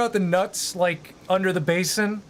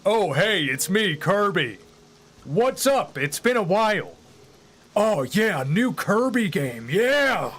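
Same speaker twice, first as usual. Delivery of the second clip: chirpy cartoon hello from Kirby; Kirby impression; slower than usual. Streamer shows chat his Kirby voice, light cartoon cheer. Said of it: "have you heard my Kirby".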